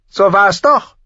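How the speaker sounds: high, loud stubborn prince, rising "doch"; insisting. Acted. Joffrey contradicts Arya, high and stubbornly insisting. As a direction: dig in on "doch" with a rising tune. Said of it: "beharrte Prinz Joffrey".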